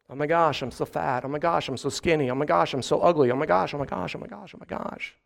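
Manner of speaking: soft, anxious self-talk fading to a whisper; a light, mock insecure teen; fretting teen. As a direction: mutter like an insecure kid. Imitates self-loathing middle schoolers.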